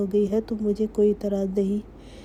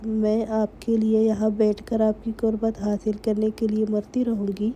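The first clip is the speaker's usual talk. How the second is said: sharp angry tone. A narrator's reading. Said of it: "تیز لہجے میں کہا".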